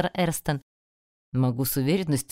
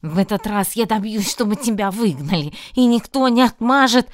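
higher, louder threat building to a yell; angry threat; 5 semitones higher, 7 dB louder than usual. Acted. Student threatens to get the heroine expelled, rising into a yell.

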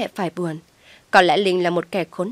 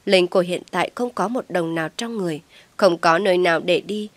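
plain reading voice

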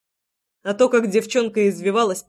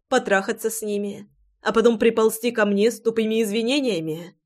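shouting. Acted. Furious wife shouts down her cheating husband, shouting. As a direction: yell your grievances at him. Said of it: "кричала Руслана".

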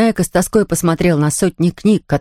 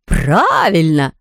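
delighted; much slower than usual. Acted. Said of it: "обрадовался Тюбик".

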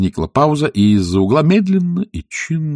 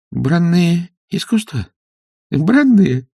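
dismayed; 10 semitones higher, 4 dB louder, slower than usual. Acted. King reads wrong title.

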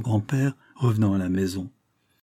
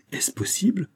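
strong voice; 9 semitones higher than usual. Acted. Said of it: "d'une voix forte qui résonna".

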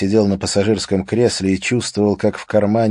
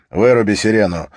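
barked order; 5 dB louder than usual. Acted. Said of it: "приказал Харри".

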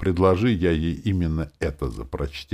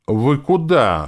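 high, loud, slow cry of protest; indignant high exclamation; exclaimed, offended; 10 semitones higher, 8 dB louder, much slower than usual. A narrator's reading. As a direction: call after them, put out. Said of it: "воскликнула девушка".

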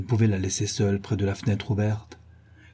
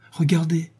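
a lively, raised «Regardez»; eager cry; 5 semitones higher than usual. Acted. Delirious Catherine urges Nelly to look, eager cry. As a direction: call out eagerly, pointing at the distant light. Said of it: "s'écria-t-elle vivement".

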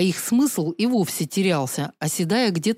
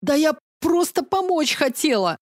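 rasping; 8 semitones higher than usual. Acted. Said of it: "прохрипела я".

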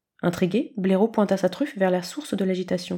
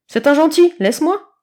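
much higher, loud protest; shrill kitten; 8 semitones higher, 8 dB louder than usual. A narrator's reading. Kitten squeals at Blaireau, high and loud. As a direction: squeal let me go.

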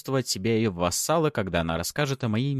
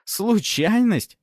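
slow, much higher sneering repeat; wry mocking echo; 7 dB louder, much slower than usual. A narrator's reading. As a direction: throw the word back with a crooked smirk. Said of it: "Фёдор криво усмехнулся".

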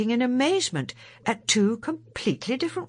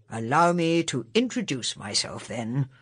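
lower, grand introduction; a stranger announcing himself; the new Doctor; 6 semitones lower than usual. A narrator's reading.

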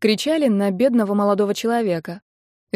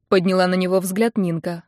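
ordinary delivery

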